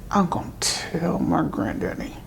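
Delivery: put-on a child's hushed threat; whispered threat. Girl whispering a threat to her father after he hits her.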